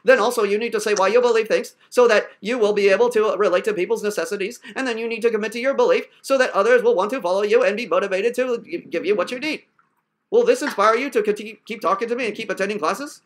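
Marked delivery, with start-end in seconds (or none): 0.0-9.6 wooden, droning fake lesson; mock stilted talk. Shown as a demonstration. Teacher parodying a useless paid class, mock stilted talk. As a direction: recite it like a dull, evasive student. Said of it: "your two hundred dollars went to me talking like this".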